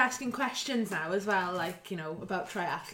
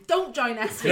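punchy slogan, louder; sign slogan shout; 6 dB louder than usual. Retold or imitated. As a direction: call out the slogan. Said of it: "they held up a sign saying".

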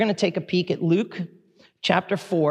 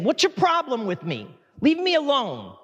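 demon's sneer; 6 semitones higher than usual. Acted. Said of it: "a demon's way … of basically saying".

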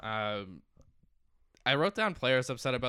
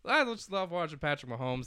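Chris Collinsworth impression; 5 semitones higher than usual. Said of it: "That's definitely Chris Collinsworth".

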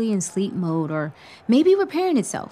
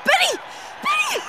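calling out. Acted. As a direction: run to him, calling. Rushing to him after touchdown.

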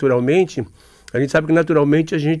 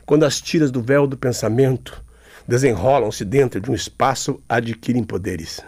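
his own declamation; 4 semitones lower than usual. Shown as a demonstration. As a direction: break the verse and let it drift down. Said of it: "Eu declamo assim".

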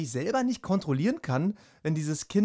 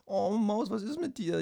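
higher, cooing worried daddy voice; 6 semitones higher than usual. Retold or imitated. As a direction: coo over the crying baby. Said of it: "bin ich ja wirklich so".

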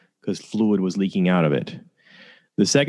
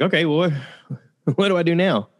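higher-pitched, mildly bewildered self-quote; halting, higher-voiced puzzlement; retold bewilderment; 8 semitones higher, faster than usual. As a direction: act out not knowing what to do. Retells own bewildered first thoughts.

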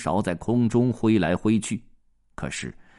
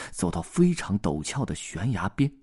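plain reading voice

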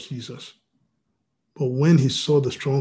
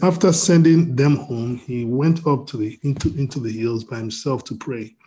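measured Bible reading voice; scripture reading; 4 dB louder than usual. Acted. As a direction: read the passage with weight. Reads scripture aloud.

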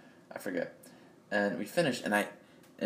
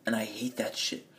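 whispered aside; 3 semitones lower than usual. Real, not acted. Muttered aside in a rant.

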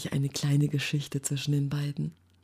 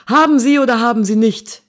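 loud, fast, high barked demand; 8 semitones higher, 11 dB louder, faster than usual. Acted. Soldier demands an answer from the reporters, barked loud. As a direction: bark the question at him. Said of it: "bellte der Soldat".

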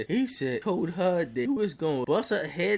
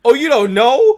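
high, loud mock surprise; Jordan quote; 9 semitones higher, 11 dB louder than usual. Jordan realizing Bernie didn't know, high and loud. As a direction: blurt it like a kid who let it slip. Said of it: "Jordan like".

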